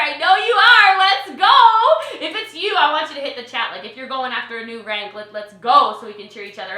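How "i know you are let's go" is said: louder, higher hype call; hyped-up repeat. Real, not acted. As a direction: fire the crowd up. Hyping the audience for ranks.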